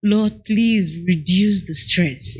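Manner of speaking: slow, earnest prayer; slow prayer to the Lord. Shown as a demonstration. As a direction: plead slowly with God. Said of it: "I do say that most times".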